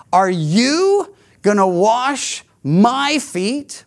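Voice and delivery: "you" and "my" both stressed, a slow, rising, disbelieving question; emphatic you and my. Retold or imitated. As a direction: lean hard on "you", then again on "my". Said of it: "Both words, "you" and "my," are emphatic".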